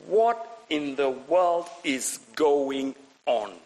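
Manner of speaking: slow, word-by-word bafflement; imitating a bewildered crowd; acted bewilderment. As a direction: draw it out, utterly baffled. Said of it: "they are bewildered".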